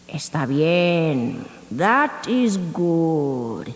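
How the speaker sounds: slow, low coyote agreeing; a lightly growled coyote, taking his time. Acted. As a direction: coyote accepting the lamb's deal. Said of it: "he said".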